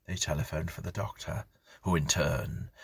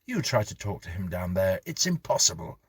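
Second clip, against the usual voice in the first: frustrated husband; 5 dB louder than usual. Acted. Husband complaining about son.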